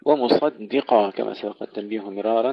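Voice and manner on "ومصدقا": ومصدقا with a thin D between heavy S and Q; light dal. Shown as a demonstration. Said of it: "ترقيق الدال بين الصاد والقاف". (ترقيق الدال)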